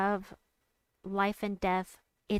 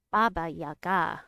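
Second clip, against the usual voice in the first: "Baba Yaga" ending on a stressed "ga"; stress on last syllable; 2 semitones lower, 4 dB louder than usual. Shown as a demonstration. Streamer practising the corrected name, stress on the last "ga" of "Baba Yaga". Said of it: "has an accent on the last syllable".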